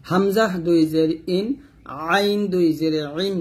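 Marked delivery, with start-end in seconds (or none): 2.1-3.3 আইন squeezed in the throat; Arabic ayn pushed from the throat in আইন; pressed ayn. Shown as a demonstration. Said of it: "চাপ দিয়ে".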